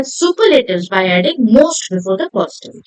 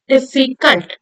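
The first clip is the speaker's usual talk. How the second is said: 'difficult' lightly separated into dif-fi-cult; syllable by syllable; slower than usual. Shown as a demonstration. Teacher asking how often the mouth opens, syllable by syllable. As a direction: mark each syllable of 'difficult'. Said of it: "How many times are we opening our mouth".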